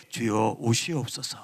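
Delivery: polite, restrained little prayer; quiet, cultured prayer. Shown as a demonstration. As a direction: pray politely and mildly, like the onlookers want. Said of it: "조용히 교양 있게". (조용하고 점잖은 기도)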